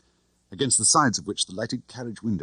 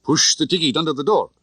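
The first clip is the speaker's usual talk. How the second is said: higher, louder falsely polite; mock polite; 9 semitones higher, 6 dB louder than usual. A narrator's reading. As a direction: fake courtesy through the door. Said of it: "I said politely".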